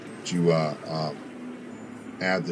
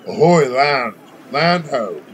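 louder sailor's call, land sighted; shouting from crow's nest; 6 semitones higher, 8 dB louder, slower than usual. Acted. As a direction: call out loudly from the mast. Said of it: "you hear someone from up in the crow's nest, uh, say".

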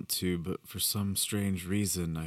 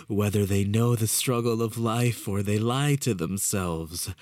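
higher, louder rising fervour; exalted madman; 5 semitones higher, 4 dB louder, slower than usual. A narrator's reading. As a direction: build to a gleeful frenzy. Walter's rising mad exaltation.

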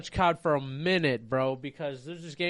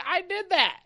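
sheepish confession; 12 semitones higher than usual. Retold or imitated. Player admits killing alien child.

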